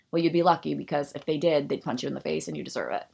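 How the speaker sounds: slightly breathless, fast; out of breath. Real, not acted. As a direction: talk short of breath. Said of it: "why am I out of breath for that?".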